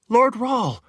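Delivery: high, loud greeting; thrilled servant greeting Lord Rahl; excited call. Acted. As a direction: call his name eagerly. Woman greets Richard excitedly.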